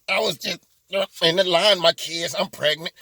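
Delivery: sniffling, sobby imitation of a victim; badly faked blubbering, broken into short bursts; mock crying. Politician pleads on her livestream, mock crying. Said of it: "she goes through snotting and crying".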